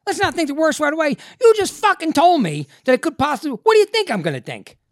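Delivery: high, loud, incredulous outburst; furious disbelief. Retold or imitated. Patient exploding at doctor's reassurance, furious disbelief. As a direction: throw the phrase back, yelling in comic outrage.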